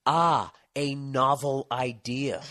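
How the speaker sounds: very slow, lofty put-on voice with a laugh; mock pompous sage. Mocking the cook as a pompous Renaissance man, slow and lofty. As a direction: ham up a self-satisfied intellectual. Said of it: "Like he was this fucking Renaissance man".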